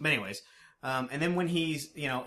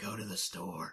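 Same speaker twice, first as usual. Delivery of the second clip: imitated creepy mutter, lower and quieter; 5 semitones lower, 8 dB quieter than usual. Describing how he repeats things to himself: imitating a quiet under-breath repeat. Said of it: "he says it quieter and kind of under his breath".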